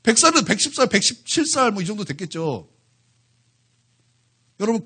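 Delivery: normal talking voice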